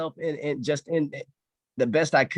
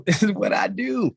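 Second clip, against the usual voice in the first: slow, emphatic declaration of purpose; powerful conviction; 4 semitones higher, 3 dB louder than usual. Retold or imitated. Trainer repeating why they do the job, powerful conviction. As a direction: drive each word home, higher-pitched. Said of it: "'cause that was powerful".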